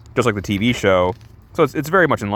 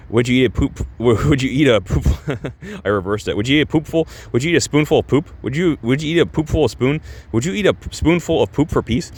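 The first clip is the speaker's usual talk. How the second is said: higher, teasing repeated question; taunting question; 5 semitones higher than usual. Retold or imitated. A character taunting Peacemaker, teasingly high. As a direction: needle him playfully.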